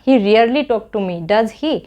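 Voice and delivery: slow, clear teaching read with a falling tag; slow model sentence. Shown as a demonstration. Teacher showing students how to say the English tag, slow and clear. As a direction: spell it out slowly, twice over. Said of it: "है ना?".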